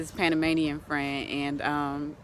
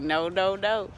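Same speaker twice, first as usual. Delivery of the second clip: lightly mimicked toddler refusing; a hint of a stubborn two-year-old; imitated two-year-old; slower than usual. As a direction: play a toddler saying no, lightly. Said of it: "Gonna be like a two-year-old around here".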